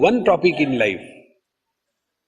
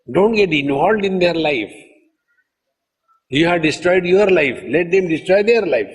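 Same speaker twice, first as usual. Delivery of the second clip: retold scolding; 3 semitones higher than usual. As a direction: scold an interfering mother, pitched up. Retelling his scolding of a mother-in-law.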